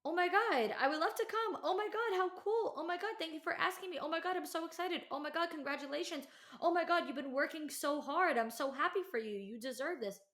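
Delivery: high, loud squealing gush; gushing excitement. Pretend. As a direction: squeal it like the thrilled best friend you wanted.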